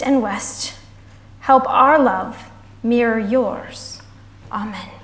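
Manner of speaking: slow, measured prayer with pauses; spoken prayer. Real, not acted. Leader addressing God for the congregation, prayerful.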